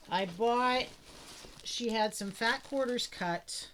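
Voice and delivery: talking while crunching chips; words over a crunchy snack. Real, not acted. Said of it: "sorry for the crunching".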